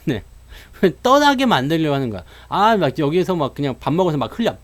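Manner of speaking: ordinary talk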